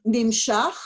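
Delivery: Nimshach said slowly, each syllable separate; staccato. Shown as a demonstration. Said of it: "I'll say it, you repeat it".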